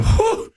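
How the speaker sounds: high, whooped whew; imitated awed whew. People reacting to a high-scoring team, imitated amazed whew. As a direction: mimic fans' amazed whew.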